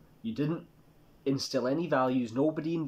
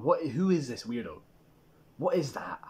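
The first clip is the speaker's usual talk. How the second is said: hushed, judging whisper; whispered sneer. Retold or imitated. A stranger staring at a passerby, whispered sneer. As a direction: sneer it under the breath. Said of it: "You're looking at that person going".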